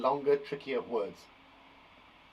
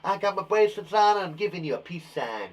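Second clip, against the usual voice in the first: Veronica Verb voice; 3 semitones higher than usual. Pretend. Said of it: "say hello to my friend Veronica Verb".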